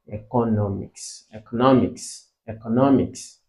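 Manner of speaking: "economics" repeated evenly with weight on NOM; teacher's careful "economics", leaning on its third syllable; stress on third syllable. Shown as a demonstration. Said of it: "sharing the same stress with education".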